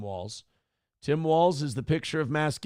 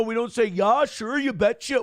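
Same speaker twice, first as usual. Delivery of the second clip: louder and higher, indignant protest; 6 semitones higher, 3 dB louder than usual. Real, not acted. A Minnesotan rejecting the stereotype, indignant and raised. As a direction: raise the pitch and protest hard.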